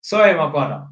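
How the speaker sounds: measured, polite request with pauses; calm and polite. Retold or imitated. Tenant asking son not to smoke, calm and polite. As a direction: ask it evenly, taking your time. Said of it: "said to him calmly and politely".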